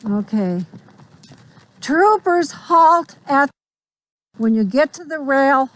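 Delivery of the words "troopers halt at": crisp cavalry officer commands. Real, not acted. Instructor calls drill command.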